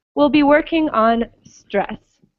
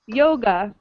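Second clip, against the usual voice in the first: "Yoga" as YO-ga; first-syllable stress. Shown as a demonstration. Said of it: "have the stress at the beginning".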